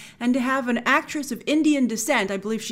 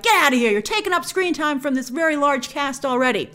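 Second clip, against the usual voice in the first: mock irritation; 4 semitones higher than usual. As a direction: shoo them off in mock annoyance. Mock complaint at new cast members.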